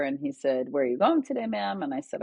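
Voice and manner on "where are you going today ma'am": higher-pitched, chipper driver's greeting. Retold or imitated. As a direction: imitate a cheery cabbie's question. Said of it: "He was very chipper".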